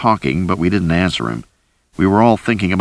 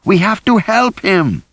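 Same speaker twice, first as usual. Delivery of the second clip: very high, desperate cry; panicked scream of a plea; shrieked plea; 14 semitones higher than usual. A narrator's reading. Rosie fighting Jack's grip.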